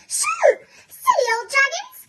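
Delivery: shouted. Acted. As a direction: shout them away, bold and a bit silly. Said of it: "and I shouted".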